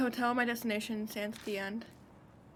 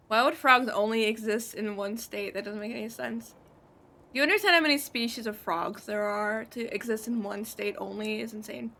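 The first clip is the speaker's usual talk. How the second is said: exasperated rant; 4 dB louder than usual. Real, not acted. Ranting at chat about frogs.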